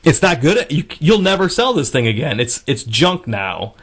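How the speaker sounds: a retold friend insisting he can't take her money back. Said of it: "he was like".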